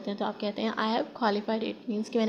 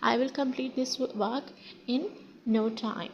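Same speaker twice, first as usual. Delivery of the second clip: slow model sentence; much slower than usual. Shown as a demonstration. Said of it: "तो उसे आप English में कहेंगे in no time".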